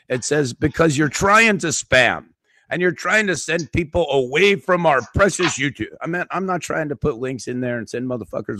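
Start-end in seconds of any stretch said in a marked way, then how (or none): 0.5-5.9 higher, mock-officious accusation; mocking nasty note. Streamer reads out YouTube's strike note, mocking its nastiness. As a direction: mockingly imitate a scolding notice. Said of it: "little nasty note they sent to me".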